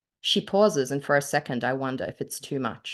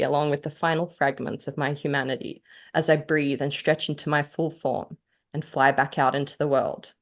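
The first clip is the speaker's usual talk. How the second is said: dark, measured reading of a vow; story reading. Acted. Author reads her story aloud.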